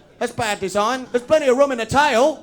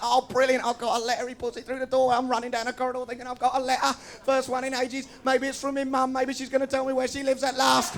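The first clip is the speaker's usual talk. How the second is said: excited thought; 4 semitones higher, 3 dB quieter than usual. Retold or imitated. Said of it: "I think".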